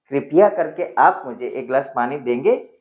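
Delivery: gentle rising polite ask; polite question; polite request. Shown as a demonstration. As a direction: ask kindly for water. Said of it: "It sounds better".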